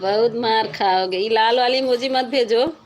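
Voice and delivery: loud playful threat; mock scolding. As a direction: scold them loudly, half joking. Scolding viewers for red emoji.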